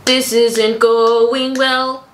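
high slow creaky strain; strained slow fry voice. Real, not acted. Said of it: "someone's being tortured".

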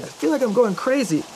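tense and high. Retold or imitated. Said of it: "still sort of tense".

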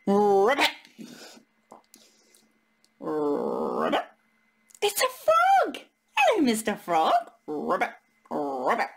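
low croaky ribbit; mock frog ribbit; frog croak. Voicing the frog.

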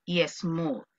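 very slow, separated vocabulary words; very slow word demo. Shown as a demonstration. Teacher slowly presenting two new vocabulary words. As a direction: lay out each word slowly.

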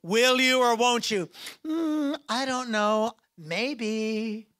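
wishy-washy Facebook reply. Pretend.

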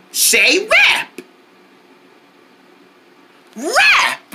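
high, bright call-and-response cheer; camp counselor cheer. Acted. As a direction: pump the kids up on every wrap. Leads kids in call-out game.

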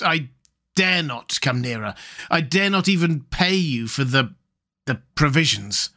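hesitant, apologetic stranger, lightly acted; lightly voiced timid castaway. Voice in the darkness refusing to come nearer, haltingly. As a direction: falter slightly as you refuse.

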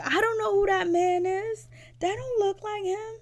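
high-pitched imitation wail; mock crying. Mother rejects her son's tattoo portrait, mock crying. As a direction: mimic a tearful, whining protest. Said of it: "And she's crying".

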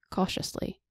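breathy whisper on cautiously; whispered word. A narrator's reading. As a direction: let the word fall to a whisper.

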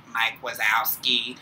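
slow, lightly voiced drawn-out name call; a hint of the bored slug clerk, slowly; Monsters, Inc receptionist. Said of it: "the lady off of Monsters, Inc".

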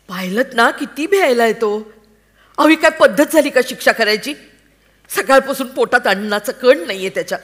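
loud, high, fast rebuke; angry scolding. Acted. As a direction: tear into your husband for punishing the boy. Wife scolds husband over punishment. (संतापून, मोठ्याने)

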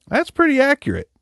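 squeaky high agreeing voice; high falsetto. Pretend. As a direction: flip way up into falsetto. Repeats phrase high then plain.

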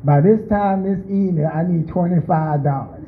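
slow, whiny bargaining with God; a churchgoer haggles with the Lord for a fast return; mock greedy giver. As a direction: drag it out like a demanding churchgoer. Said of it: "some of you like".

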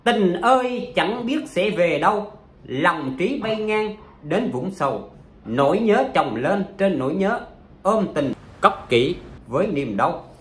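slow recited poem; poem recital. Shown as a demonstration. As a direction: read each line out slowly like verse. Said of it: "trong bài thơ đấy này".

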